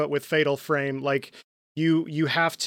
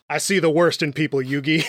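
oil tycoon drawl. Retold or imitated. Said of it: "highfalutin oil tycoon-ass guy".

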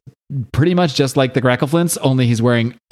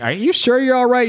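put-on girl's voice; 11 semitones higher than usual. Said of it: "And she's like".

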